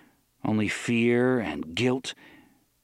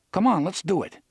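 eager Eddie; 8 semitones higher, 3 dB louder than usual. Acted. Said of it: "Eddie said".

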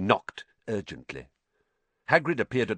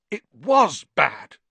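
slow, strained, higher and louder; hoarse; 8 semitones higher, 7 dB louder, slower than usual. A narrator's reading. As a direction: force it out hoarsely after being sick. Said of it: "said Ron hoarsely".

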